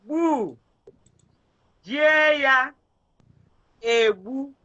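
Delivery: slow, split into syllables. Shown as a demonstration. Teacher spelling a word out slowly for a pupil. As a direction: break the word apart for the student. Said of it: "See how I'm spelling it?".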